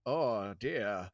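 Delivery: lightly voiced old man, kindly; a hint of a frail old gas station owner; elderly gentleman. Old man greets the boys at the gas station, lightly voiced. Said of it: "an elderly gentleman comes out".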